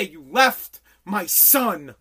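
slow, loud accusing voice; angry confrontation. Retold or imitated. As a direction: lean in and blame each word. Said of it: "and say".

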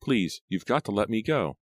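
high, urgent begging; tearful plea. A narrator's reading. Captive begs to be freed, tearfully. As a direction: beg through held-back tears. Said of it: "feeling more hot tears".

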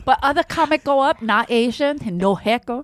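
imitation Asian-accented grievance; hammed-up Asian accent impression; mock Asian accent. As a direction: protest in put-on broken English, Asian accent.

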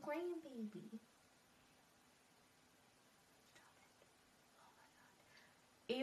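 tearful. Real, not acted. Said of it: "typing through the tears".

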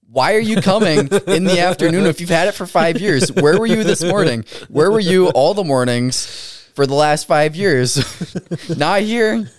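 exasperated rant. Retold or imitated. Ranting at late patients.

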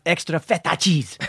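imitating mom's overdone Greek accent; hammed-up Greek "feta"; extreme Greek accent. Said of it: "when you put it to that extreme".

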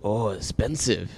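slow, lightly put-on Asian accent; accidental Asian accent. Retelling the liquor store clerk's remark, accidental Asian accent. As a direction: imitate him in a mild, mistaken Asian accent. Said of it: "said it in a fucking Asian accent".

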